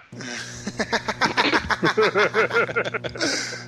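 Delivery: high, rising laugh at his own punchline. Real, not acted. Teller laughs high at his own punchline for the host.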